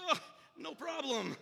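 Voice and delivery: grunt, then a strained reply; mock effort under a heavy load; acted strain. Helper hoisting her very heavy box, acted strain.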